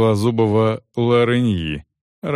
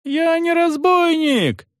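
much higher, slow, drawn-out yell of denial; desperate yell; slower than usual. A narrator's reading. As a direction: howl it out in despair. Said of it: "заорал мужик".

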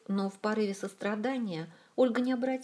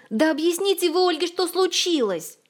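hysterical sob; 10 semitones higher, 9 dB louder than usual. A narrator's reading. Zin sobs hysterically at the others to explain. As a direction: wail it out in hysterics. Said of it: "истерически всхлипнула Зинь".

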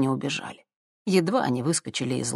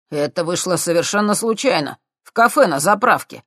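babbling; 3 semitones higher, 5 dB louder than usual. Acted. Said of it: "пролепетал Андрей Серёгин".

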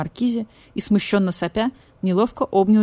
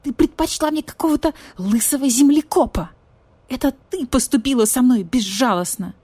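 higher, louder jealous reproach; indignant; 6 semitones higher, 4 dB louder than usual. Acted. Badger-cat jealously accuses the cat, raised voice. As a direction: accuse her hotly. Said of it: "распушился от возмущения".

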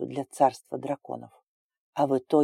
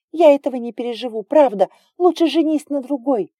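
fast tearful plea; 10 semitones higher, 8 dB louder than usual. Acted. Crying girl begs him.

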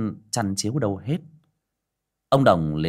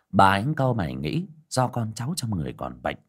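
usual speaking voice

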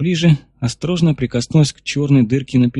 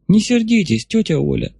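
put-on girl voice; 8 semitones higher than usual. Girl voice, high.

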